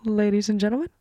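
announcer voice trailing into whisper; announcer intro. Retold or imitated. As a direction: open like a show host. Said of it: "how Alejandro starts off the improv scenes".

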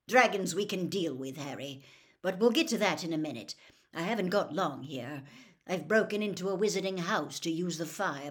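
hurried warning to Harry, pushing the voice out; Sirius. Acted. Sirius warns Harry by fire.

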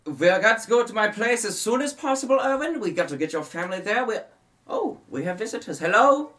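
put-on high, loud, hurried old monster hunter; frantic vampire hunter bursting in with news; excited Van Richten.

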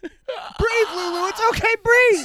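mock soothing. Calming wheezing friend.

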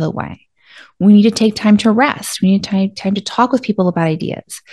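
steady, promising and calm; reassuring voice. Shown as a demonstration. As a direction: take care of your brain step by step. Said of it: "it might sound something like this".

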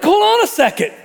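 high, loud heckling from the stands; high, loud mock heckling at a show; mock outraged fan. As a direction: yell like a bloodthirsty spectator.

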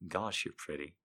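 soft, tender compliment; softly. Acted. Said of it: "he said softly".

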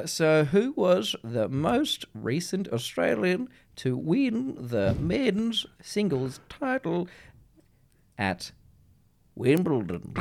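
switching in and out of a lisp. Pretend. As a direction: dip in and out of a lisp every word. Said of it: "dip in and out of Ryland and Les".

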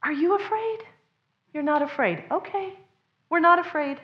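put-on a child checking dad's face and calming; child reassured. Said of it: "and go".

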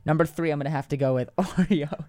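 cracking up mid-sentence; words breaking into giggles; trying not to laugh. Real, not acted. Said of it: "stop making me laugh".

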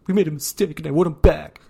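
wailing parody of a friend begging; whiny mock plea. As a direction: overact a needy best friend begging. Mocking Kenny's emotional plea.

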